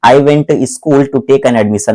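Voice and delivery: slow dictation. Shown as a demonstration. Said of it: "लेकिन ये देखो".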